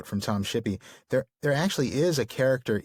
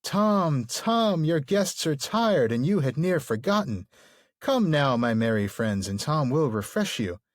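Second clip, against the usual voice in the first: Tom Bombadil, sing-songy; 3 semitones higher, slower than usual. Tom welcoming tired guests to wash, sing-songy cry. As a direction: call out, then lilt along in a chanting rhythm. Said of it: "rhythmic, sing-songy way".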